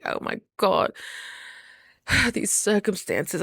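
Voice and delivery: breathy, slow sighing lament; mock despair. Mimicking someone weighed down by circumstances, mock despair. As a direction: sigh it out as if overwhelmed. Mimics choosing gloom over play.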